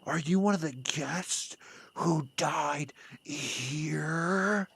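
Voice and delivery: slow whisper to the ghost. Real, not acted. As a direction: breathe it slowly, barely voiced. Addressing the ghost.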